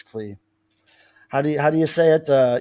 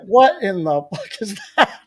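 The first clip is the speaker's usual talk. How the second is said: voicing the cat; 5 semitones higher, 4 dB louder, slower than usual. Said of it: "she was just looking at it like".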